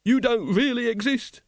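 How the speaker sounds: high-pitched, agitated protest; high, strained disbelief; frantic denial. Acted. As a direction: deny it in a rising panic. Wonse denies the patrician is real.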